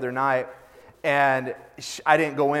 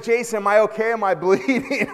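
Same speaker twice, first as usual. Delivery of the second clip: mock panic; 5 semitones higher than usual. Boy running round the yard asking if he's bleeding, mock panic. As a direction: play a boy asking in a fright, hammed up. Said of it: "he jams in the house like".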